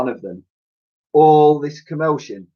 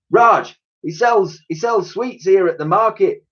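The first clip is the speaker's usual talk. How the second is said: put-on higher brisk old lady's voice; old lady explaining; 8 semitones higher than usual. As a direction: explain it to the girl fondly. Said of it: "replied Dotty".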